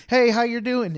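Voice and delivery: a stranger's chipper hi in the queue; mock bright greeting; cheery greeting.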